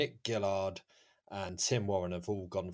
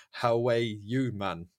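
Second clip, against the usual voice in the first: drawn-out, louder Geordie delivery; Geordie accent; 3 semitones higher, 5 dB louder, much slower than usual. Shown as a demonstration. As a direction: put on a slow Geordie accent. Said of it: "say two of these in a Geordie accent".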